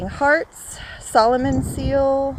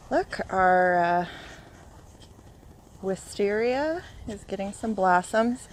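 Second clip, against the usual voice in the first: breathless after a run; panting a little between words; out of breath; 4 dB quieter than usual. Real, not acted. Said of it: "I'm out of breath".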